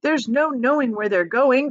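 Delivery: high, loud gleeful cry; Wonka hooting. A narrator's reading. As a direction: cry it out with wild glee. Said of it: "cried Mister Wonka, hooting with laughter".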